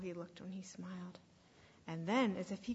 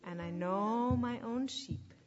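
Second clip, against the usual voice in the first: slow, deliberate scripture quote; spoken with weight, falling lower at the end; measured, pausing proclamation; solemn declaration; 4 semitones lower, slower than usual. Retold or imitated. Quotes Jesus's words solemnly.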